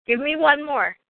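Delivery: eager request. Real, not acted. Interviewer eagerly asking for another story, high and eager.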